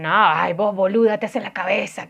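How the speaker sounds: imitating an Argentine husband brushing her off; Argentine accent. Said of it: "así como me hablan los argentinos".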